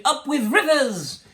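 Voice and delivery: high, loud joyful call; hooting. A narrator's reading. Duckbill herd hooting with delight, high loud hoot. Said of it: "And they hooted".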